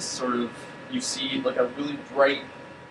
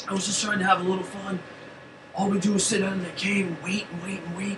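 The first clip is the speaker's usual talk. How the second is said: put-on higher-pitched pleading young voice; Yank's voice; 6 semitones higher than usual. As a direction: whine it like a bored kid making excuses. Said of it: "does that one sound like Yank?".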